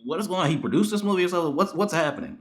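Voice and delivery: reenacting baffled viewing of the film; incredulous disbelief. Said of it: "I was like".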